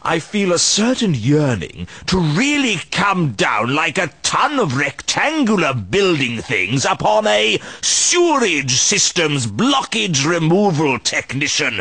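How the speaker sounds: a light touch of relish, savouring each grander title for Rincewind; lightly voiced scheming gloat; gloating villain.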